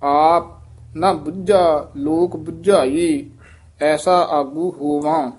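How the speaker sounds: slow demo, firm doubled consonant in ਬੁੱਝਾ; tightly pronounced ਬੁੱਝਾ. Shown as a demonstration. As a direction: press hard on ਬੁੱਝਾ and ਬੁਝਾਈ, resting after ਆਪ. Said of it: "ਇਹ ਬੁੱਝਾ ਪਦ ਵੀ ਕੱਸ ਕੇ ਉਚਾਰਨ ਕਰਨਾ ਹੈ".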